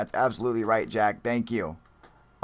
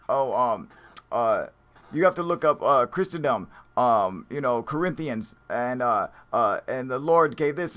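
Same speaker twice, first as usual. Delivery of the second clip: mock rambling commenter; 2 semitones higher, 5 dB louder than usual. Streamer mocking a rambling chat poster, lightly imitated. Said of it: "they're like".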